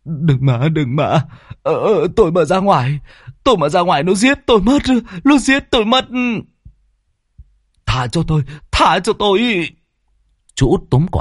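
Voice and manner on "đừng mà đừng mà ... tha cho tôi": high, whining terrified begging; high panicked pleading; whimpering plea. Acted. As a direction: beg for his life, voice cracking higher. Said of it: "miệng mếu máo".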